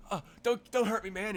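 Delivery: high, loud mock panic; fleeing kid begging not to be hurt, mock panic; scared kid. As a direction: beg in hammed-up fright. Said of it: "He just like".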